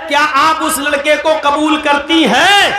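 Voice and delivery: loud formal nikah question; loud clear question. Shown as a demonstration. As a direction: call out کیا آپ اس لڑکے کو قبول کرتی ہیں loudly. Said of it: "اتنی زور سے آپ بول دیجئے پہلی بار".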